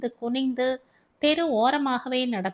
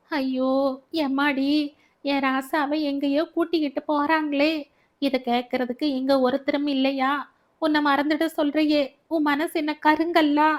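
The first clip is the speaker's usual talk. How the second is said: keen to the crowd, then plead with him; lamenting wail; 4 semitones higher than usual. Acted. Baby lamenting at the police van.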